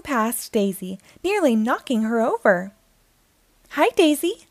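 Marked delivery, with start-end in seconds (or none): 3.7-4.5 shouting. Acted. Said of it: "the twins shout".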